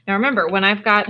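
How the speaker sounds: pterodactyl screech. Shown as a demonstration. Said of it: "it's gonna make the pterodactyl noise".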